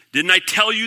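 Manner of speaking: a touch of I-told-you-so exclamation; exclaiming. A narrator's reading. King Ahab turns to Jehoshaphat about the prophet, mildly exclaiming. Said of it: "the king of Israel exclaimed to Jehoshaphat".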